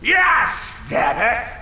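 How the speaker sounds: shouted grumpy demand; indignant demand. Acted. Dragon demanding an update from upstairs, grumpy shout. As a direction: huff and demand.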